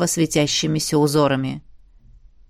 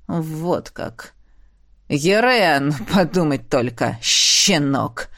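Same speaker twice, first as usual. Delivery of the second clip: lower, scornful ruler's voice; emperor, scornful; 4 semitones lower, slower than usual. Acted. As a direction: sneer at the rival, voiced low. Emperor's bitter realisation.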